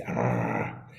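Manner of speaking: low rumbling dog growl; deep growl. Retold or imitated. Dad growls at his son like a Rottweiler. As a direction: growl like a dog to a small child. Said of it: "I used to growl at him and say".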